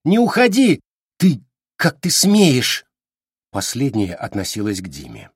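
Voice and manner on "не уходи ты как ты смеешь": shouting. A narrator's reading. Quarrel, shouting.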